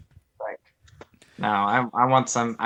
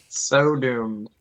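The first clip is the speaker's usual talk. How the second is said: spooky whispered echo; whispering. Pretend. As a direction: breathe it out as a whisper. Echoing the doom line.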